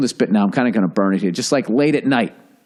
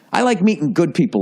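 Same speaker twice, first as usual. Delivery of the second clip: quoting the guy's line; 3 semitones higher than usual. Retold or imitated. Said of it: "what the fuck does that mean?".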